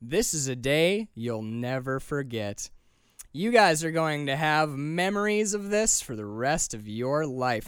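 slow, lightly hammed-up tour guide; cheesy tour guide. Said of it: "cheesy ass late nineties writing".

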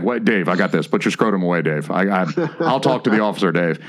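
a hint of a nerdy white dude. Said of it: "Dave does his white friend voice".

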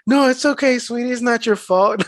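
lightly voiced soothing reassurance; mock consoling. Customer comforting her mail carrier, mock consoling.

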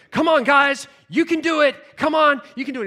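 rally the team with real gusto; eager encouragement. Retold or imitated. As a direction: enthusiastic cheering of the workers. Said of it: "They need your encouragement".

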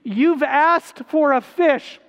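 a hint of a sly, slow father offering a snake; lightly voiced father in a horror flick; mock cruel father. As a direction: hold out the snake slowly, mock-sweet. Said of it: "a father saying".

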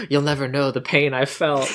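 imitating a hurt mother with a dramatic gasp; gasp, then play up the hurt a little; mock wounded. Mom wounded that her son dismisses Irish suffering, mock hurt. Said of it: "this hurt look on her face".

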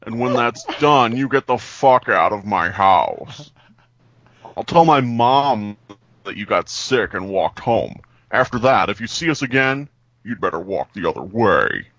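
Mister Plinkett voice. Pretend. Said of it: "That was Mister Plinkett".

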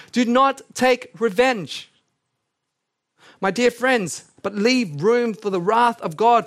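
lifted pulpit reading voice; scripture reading. Acted. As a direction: proclaim the verses to the hall. Reads Romans aloud.

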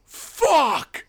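high, loud bratty shout; kid's curse. Retold or imitated. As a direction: spit it out like an angry kid. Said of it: "And he's like".

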